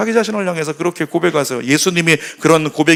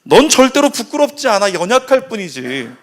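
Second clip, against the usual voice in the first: earnest reassurance, rising high on the denial; lightly voiced Jesus comforting someone ashamed; reassuring Jesus; 4 semitones higher than usual. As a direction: insist gently, then settle down. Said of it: "우리 예수님은 이렇게 말씀하시는 거예요".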